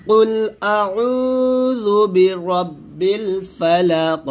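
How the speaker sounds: slow Quranic chant; slow recitation. Shown as a demonstration. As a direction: recite slowly, each syllable drawn. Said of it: "আবার বলেন".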